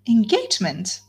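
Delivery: a lifted, startled "Engagement?"; mildly shocked echo; startled question. Acted. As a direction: catch on the word in disbelief. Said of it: "cried Marianne".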